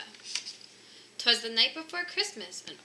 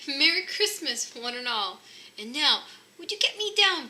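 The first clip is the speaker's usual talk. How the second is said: jolly Santa; 5 semitones higher, 6 dB louder than usual. Acted. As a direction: boom it out merrily. Santa greets, stuck.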